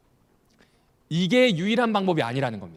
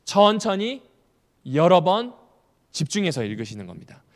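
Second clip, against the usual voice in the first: each phrase set apart, louder, very slow; slow emphatic list; 5 dB louder than usual. Shown as a demonstration. Lecturer drilling reading attitude to congregation, slow emphatic. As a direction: spell out each step like a rule. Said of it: "마음가짐 첫 번째".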